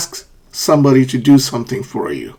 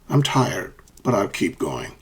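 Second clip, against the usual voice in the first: softer, "tired" then a low drop on "keep going"; contrastive intonation; 5 semitones lower, 7 dB quieter than usual. Shown as a demonstration. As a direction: step down after "tired" for the contrast. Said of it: "The first sentence is a contrast".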